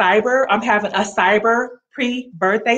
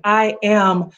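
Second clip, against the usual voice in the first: confident declaration voice; spoken declarations. Shown as a demonstration. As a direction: declare each line like a faith decree. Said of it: "Make some declarations".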